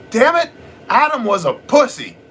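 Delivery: mock wife outburst. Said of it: "she kinda spins around and she goes".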